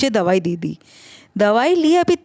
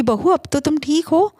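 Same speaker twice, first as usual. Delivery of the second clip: mimicking mother-in-law; 5 semitones higher than usual. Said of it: "आप भी तो ... पूछती रहती".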